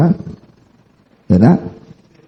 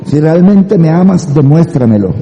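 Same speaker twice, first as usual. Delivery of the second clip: novio insistente; 5 semitones higher than usual. Retold or imitated. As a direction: imitate a boyfriend demanding proof. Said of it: "le dicen a la novia". (novio que presiona, imitado lentamente)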